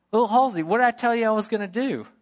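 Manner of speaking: mock-stern uncle; teasing uncle. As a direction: challenge him knowingly. Uncle scolds nephew.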